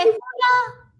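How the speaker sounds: high, loud Marine cheer; loud gung-ho soldier. Acted. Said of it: "Give it up for Marines".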